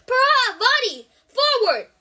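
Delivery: loud, slow, high call across the room; shouting. A narrator's reading. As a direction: shout the name out, drawn out. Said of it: "Professor Lupin shouted".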